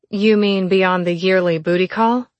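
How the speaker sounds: spoken through gritted teeth. Acted. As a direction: bite the words through clenched teeth. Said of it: "Val asked through gritted teeth".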